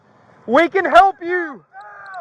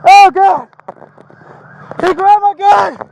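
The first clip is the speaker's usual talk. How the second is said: shaken cry; 5 dB louder than usual. Real, not acted. Just after shots fired.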